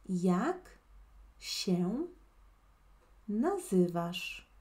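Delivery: nazywasz stretched slowly with a questioning end; slow teaching demo. Shown as a demonstration. Teacher repeating the whole question for a student, slowly. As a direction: model the question word by word. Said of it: "repetimos toda la pregunta".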